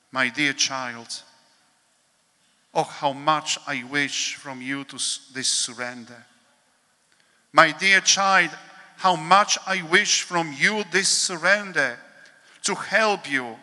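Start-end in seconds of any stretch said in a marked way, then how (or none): 0.1-1.2 slow and tender, almost hushed; tender, slow address. Acted. Jesus to his troubled child, slow and tender. 7.5-12.0 pleading, louder. Acted. Jesus begging his anxious child, louder and pleading.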